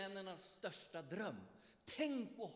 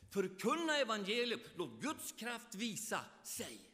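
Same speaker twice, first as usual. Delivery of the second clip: preaching call; 5 dB louder than usual. Real, not acted. Preacher exhorting the congregation.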